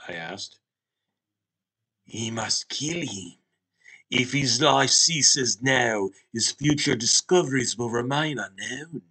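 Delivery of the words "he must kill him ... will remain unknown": grave talking Hot Pocket. Acted. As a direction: proclaim it like an ancient oracle. Hot Pocket demands a killing.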